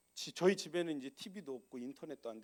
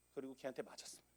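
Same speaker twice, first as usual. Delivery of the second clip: ordinary delivery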